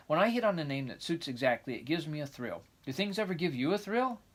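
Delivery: put-on lively, eager young girl; excited girl voice. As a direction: chatter on like a dreamy child. Anne's eager chatter.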